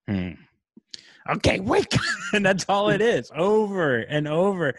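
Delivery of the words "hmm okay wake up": higher, pushy infant voice; mock baby voice. Baby calling parents again, mock high whine. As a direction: demand it like a cranky baby. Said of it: "and then he goes".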